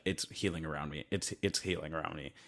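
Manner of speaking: low, soft, unbothered retelling; mock calm in a crisis, voice dropped right down; shockingly chill. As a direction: imitate someone oddly unfazed, quietly. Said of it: "they're all shockingly pretty chill".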